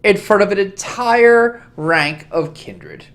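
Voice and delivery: slow, cold reproach from the prince; scolding prince. Acted. The prince lectures the young kindred, slow and stern. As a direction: lean on each word like a disappointed ruler.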